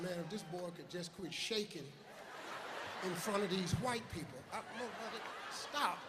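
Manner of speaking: quiet, under the breath plea; muttered aside. Retold or imitated. Host silently begging nervous contestant, in a mutter. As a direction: mutter it to yourself, pleading.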